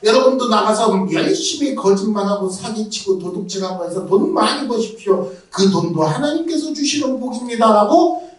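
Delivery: hammed-up prosperity preacher; mock false preacher. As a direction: parody a fake pastor promising riches. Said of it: "윤 목사님 절대로 말 안 할 거예요".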